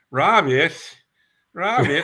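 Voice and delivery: put-on Brooklyn-accented Robert, called out high and loud. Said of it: "had a real thick Brooklyn accent".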